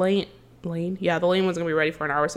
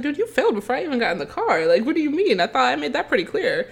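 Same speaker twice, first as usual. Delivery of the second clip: higher-pitched, quick incredulous comeback; exasperated retort; 6 semitones higher, faster than usual. Retold or imitated. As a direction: fire it back fast, in disbelief. Retold retort to his question.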